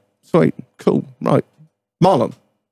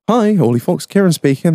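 slightly put-on, higher-pitched receptionist greeting; phone greeting; 5 semitones higher than usual. Accountant picking up the phone, higher formal greeting. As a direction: imitate someone answering a business call. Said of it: "I pick up the phone".

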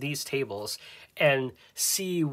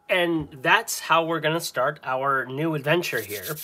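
usual speaking voice

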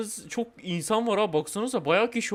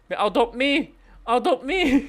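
mock begging, slightly raised voice; playful pleading; 3 semitones higher, slower than usual. Game player asking others to adopt them, playful pleading. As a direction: plead like a kid asking to be taken in.

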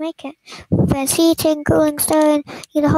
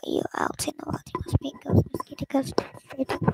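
whisper; 6 dB quieter, faster than usual. Acted. Eerie ghost mosquito talk.

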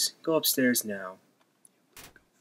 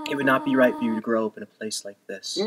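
gentle sad Toriel. Acted. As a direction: read it like a sorrowful mother. Reads Toriel's lines in a voice.

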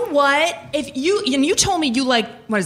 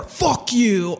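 punchy "fuck you"; different mood. Shown as a demonstration. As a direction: land "fuck you" as one firm jab. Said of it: "There's a thousand ways to say it".

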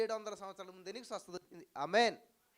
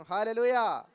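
loud, high hallelujah; shouted hallelujah; 4 semitones higher, 11 dB louder, much slower than usual. Real, not acted. Preacher rousing the congregation with a loud hallelujah shout. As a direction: belt it to the crowd.

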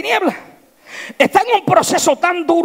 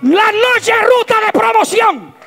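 fiery slow sermon proclamation; preaching at full force; 6 semitones higher, slower than usual. Acted. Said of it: "repeated proclamation".

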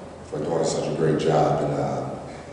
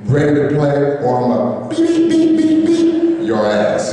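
much higher, louder bleeped screaming, slow; furious coach yell; 4 dB louder, slower than usual. Retold or imitated. Coach chewing out his quarterback on the sideline, furious slow yell. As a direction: blow up at him like a furious coach. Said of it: "he got smoke coming out his nose".

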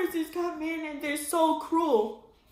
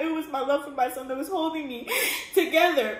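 teary laugh; faster than usual. Real, not acted. Laughs through emotion about son.

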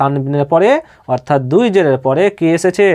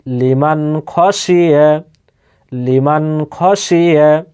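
Quran recitation; much slower than usual. Shown as a demonstration. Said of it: "বিনা গুণনায় তাড়াতাড়ি পড়তে হবে".

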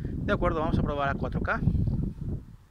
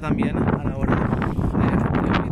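shouting over wind; 8 dB louder than usual. Real, not acted. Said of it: "Perdón por el ruido del viento".

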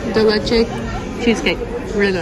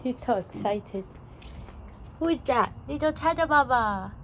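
cooing to a dog; 5 semitones higher, 9 dB quieter than usual. Real, not acted.

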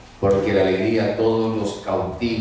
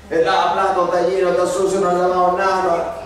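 higher mock complaint about dirty dishes; mother scolding; 7 semitones higher than usual. Priest voicing the mother complaining about unwashed plates, higher mock scolding. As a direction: fuss like the angry mother again. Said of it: "vuelve como una leona".

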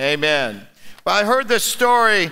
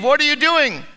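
higher, woken-up surprise; startled; 6 semitones higher than usual. Acted. Adam woken in the night asking Eve, startled. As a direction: ask it like you just woke to a poke. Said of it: "and he said to Eve".

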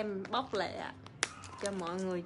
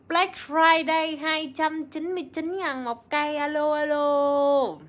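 calling out; 5 semitones higher, 7 dB louder than usual. Real, not acted. Livestream sales pitch call.

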